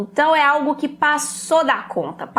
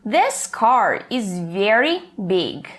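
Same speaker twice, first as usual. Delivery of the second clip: slow example read; 3 semitones lower, much slower than usual. Shown as a demonstration.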